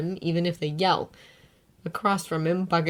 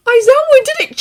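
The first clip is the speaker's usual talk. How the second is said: surprised; 13 dB louder than usual. A narrator's reading. Izuku interrupting.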